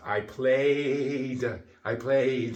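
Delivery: "played" ending in a clearly voiced d. Shown as a demonstration. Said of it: "we are using our vocal cords".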